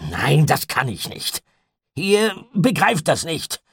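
pleading and rattled; agitated despair. A narrator's reading. Gideon refuses, fearful and overwrought.

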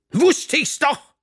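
high, loud, drawn-out exclamation; triumphant crowing. A narrator's reading. Teacher vindicated by pupil's confession, crowing. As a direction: gloat loudly at being proved right.

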